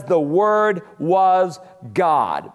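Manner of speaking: slow, weighty stress on "was God"; emphatic declaration. Shown as a demonstration. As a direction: draw out "was", then land on "God". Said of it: "emphatic declaration".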